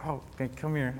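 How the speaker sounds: softly retold consoling; tender comforting. Counselor comforting a crying camper, gently and softly. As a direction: say it softly, as if offering a hug.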